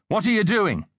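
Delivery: high, sharp teacher's challenge; restrained narrated yell, pitched high; mild yell. A narrator's reading. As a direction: call out a pupil caught misbehaving. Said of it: "Mister Hanif yelled".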